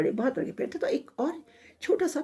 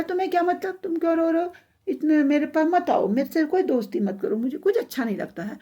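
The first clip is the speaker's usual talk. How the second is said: high-pitched peevish rebuff; 6 semitones higher than usual. Acted. Upset little tree tells the rabbit to stay away, peevish. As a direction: push them away in a sulky, higher voice.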